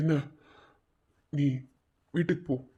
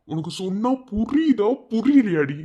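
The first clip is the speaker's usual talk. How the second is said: exasperated scolding; 5 semitones higher, 3 dB louder than usual. Acted. Exasperated friend scolding her.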